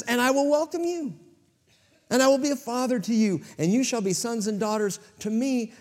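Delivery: voice of God. Retold or imitated. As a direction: proclaim it as God welcoming his children. God speaking his promise.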